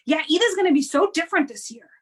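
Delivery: heightened worried parent voice; anxious, dramatic tone. Shown as a demonstration. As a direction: say it with worried emphasis. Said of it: "very different effect than if I say".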